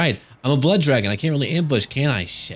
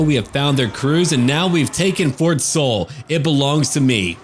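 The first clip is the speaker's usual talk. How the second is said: gloating; 4 semitones higher than usual. Acted. Gloating victory as vampire lord.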